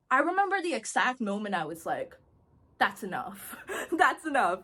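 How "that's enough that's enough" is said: laughing resolve. Retold or imitated.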